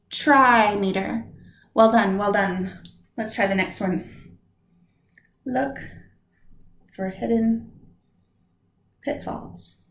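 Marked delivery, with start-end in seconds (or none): 5.4-9.8 whisper. Shown as a demonstration.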